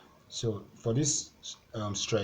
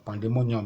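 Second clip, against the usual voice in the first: "Pandemonium" with MO hit louder; stress on MO; 5 dB louder than usual. Shown as a demonstration. Teacher showing the penultimate rule, stress on MO. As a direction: punch the MO in "Pandemonium". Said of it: "you have to stress the mo".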